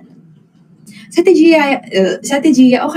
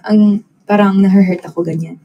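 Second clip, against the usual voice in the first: whisper. Real, not acted. Confessing a hurt feeling.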